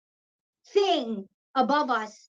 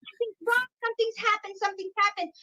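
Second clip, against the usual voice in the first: retold alarm; 5 semitones higher than usual. Re-enacting her own alarm.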